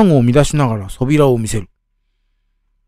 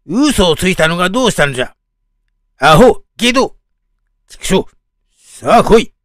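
put-on an old man turning savage, cornered; snarling old man; 4 semitones higher than usual. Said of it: "いたけだかに罵った。".

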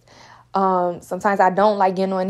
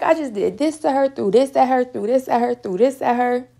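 mock enemy; 4 semitones higher than usual. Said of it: "He gonna be like".

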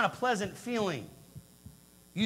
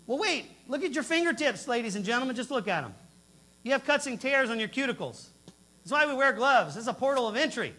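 retold outrage; 4 semitones higher than usual.

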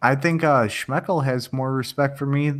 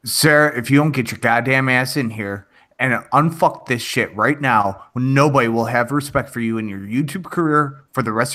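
barked orders, slightly raised; military voice. Pretend. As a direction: drill sergeant chewing out a recruit. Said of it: "Use your military voice".

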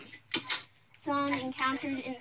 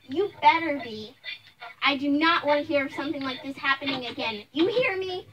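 stern warning; 5 dB louder than usual. Acted. Mother warns the bully.

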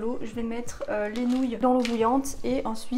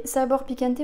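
French-accented Spanish; 3 dB louder than usual. Real, not acted. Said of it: "excusez-moi pour mon accent espagnol". (espagnol avec un gros accent français)

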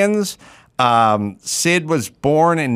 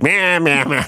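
mocking blah blah; 3 semitones higher than usual. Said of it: "That's such a good impression".

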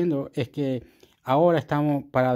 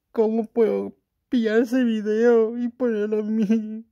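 mock eager self; 8 semitones higher, slower than usual. Retells his own eager thoughts.

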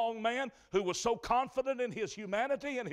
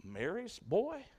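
scornful whisper; 3 semitones higher, 4 dB quieter than usual. Retold or imitated. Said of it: "began to whisper and say".

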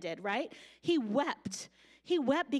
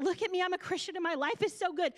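mock bragging; 5 semitones higher, much faster than usual. Mocking a bragging online Christian.

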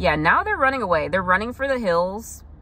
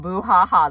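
mock spooky laugh; 5 dB louder than usual. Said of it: "what my kids said".

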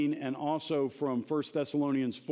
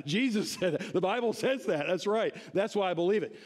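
amused, higher-pitched answer through a chuckle; laughing; 4 semitones higher than usual. Real, not acted. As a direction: say it while laughing. Laughs while answering own question.

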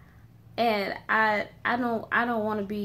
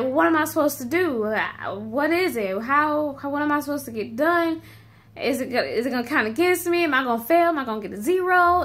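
imitating a panicky sixth grader, rising higher and louder; mock panic, questions tumbling out faster; freaking-out student; 4 semitones higher, 4 dB louder, faster than usual. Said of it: "they're still freaking out".

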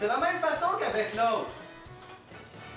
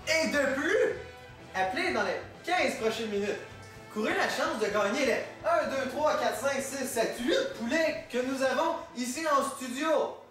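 infomercial. Acted. Infomercial pitch.

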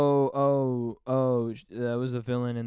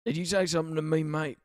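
mock Australian accent; 3 semitones higher than usual. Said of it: "doing a shitty Australian accent".

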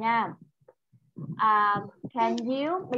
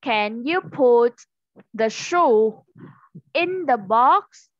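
louder, slow "can you put the shoe in the box", stressing "in"; loud slow question; 5 dB louder, slower than usual. Shown as a demonstration. Teacher asks the child a slow, loud question. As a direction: ask slowly and loudly so the child follows. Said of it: "teacher's loud slow question".

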